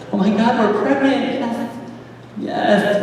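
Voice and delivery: high-pitched, contained mock excitement; imitating thrilled women. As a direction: celebrate like a delighted expectant mother. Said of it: "women like to do this thing where they're like".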